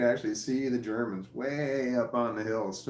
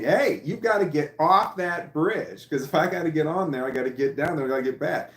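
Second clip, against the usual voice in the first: retold warning; 4 semitones higher, 4 dB louder than usual. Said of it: "talking to the higher-up guys saying".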